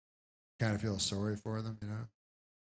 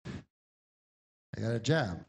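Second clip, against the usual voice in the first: slow insistent repeat; 2 semitones lower, much slower than usual. Retold or imitated. Drifter repeating to the policeman.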